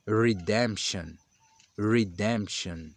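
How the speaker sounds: redemption slowly with an English R; English pronunciation. Shown as a demonstration. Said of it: "pronuncia-se". (redemption devagar em inglês)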